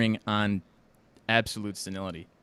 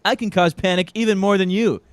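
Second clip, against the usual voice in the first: louder, higher boastful Trump imitation; Trump impression; 8 semitones higher, 9 dB louder than usual. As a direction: brag loudly as Trump would. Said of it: "He's like".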